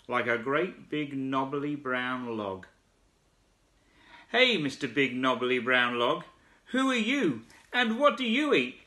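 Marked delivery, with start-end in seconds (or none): 4.3-8.8 high calling shout; frog shouting. Acted. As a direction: call out to the log. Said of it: "shouted the big wide-mouthed frog".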